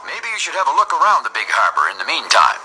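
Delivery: lightly voiced dispatcher; suggesting dispatcher. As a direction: offer it as a helpful suggestion.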